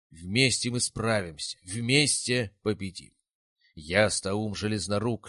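slow, grand rallying oration; fiery revolutionary speech. A narrator's reading. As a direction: rouse the troops with every word. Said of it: "толкнуть громкую проникновенную речь".

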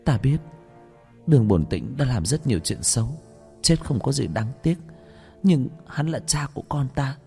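high-pitched, imploring woman; acted desperate plea for mercy; tearful-style pleading. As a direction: beg for his life, voice lifted. Mother begs for father's life.

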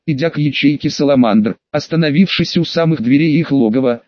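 ordinary delivery, nothing marked

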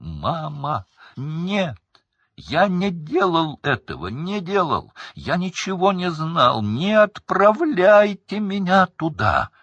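very high, loud, slowing at the end; breaking into a shriek. A narrator's reading. Son shrieking to his mother as he is taken. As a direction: shriek in terror. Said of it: "срываясь на визг".

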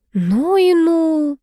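slow, drawn-out high gasp; gasp of surprise. A narrator's reading. Vasilisa gasps hearing about the buried jewels, surprised. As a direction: let the surprise hang in the air. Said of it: "ахнула Василиса".

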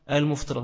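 "المفطرات" as muftirat, no shadda on ط; single-ط "المفطرات", muf run together; common mispronunciation. Shown as a demonstration. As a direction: imitate the common slip, "المفطرات" as al-muf-ti-rat. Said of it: "كتير من الناس بينطقها".

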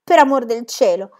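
un'esclamazione spaventata, più forte. Acted. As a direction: supplica allarmata di una bambina. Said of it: "disse la bambina spaventata". (bambina spaventata che protesta)

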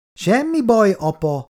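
put-on high, lifted child's voice; little girl. A narrator's reading. Small daughter comforting her embarrassed father, high childlike voice. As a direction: reassure in a small girl's high voice.

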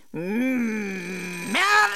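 a long drawn-out shouted call; desperate call. Acted. Last desperate call for Merl. (langgezogener Ruf)

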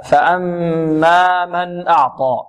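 فأما with a long hummed doubled m; held nasal ghunna. Shown as a demonstration. Tajweed teacher shows students the ghunna, slow measured recitation. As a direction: slowly hum through the mm in فأما. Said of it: "وغن ميما ثم نونا شددا".

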